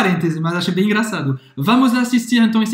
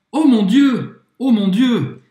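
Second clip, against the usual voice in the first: mock despair; 4 semitones higher, 5 dB louder than usual. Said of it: "Depois ela falou".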